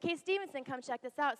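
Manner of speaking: a high called-out yell across the ship; retold yell. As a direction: shout it to a friend to come look. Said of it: "He's like".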